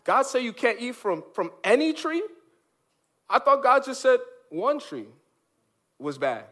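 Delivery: lightly voiced tempter, feigning puzzlement; a hint of a scheming serpent; sly serpent. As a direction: needle her with a mock-innocent question. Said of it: "Satan comes along and he frames the question".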